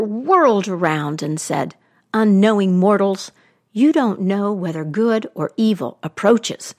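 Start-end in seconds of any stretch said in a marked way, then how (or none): 2.1-6.7 stern goddess. Acted. Goddess rebukes the queen.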